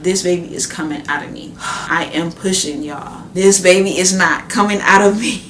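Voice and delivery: fast, rising to a loud frustrated outburst; strained exasperation. Retold or imitated. Mother in labor venting to husband, frustrated and loud.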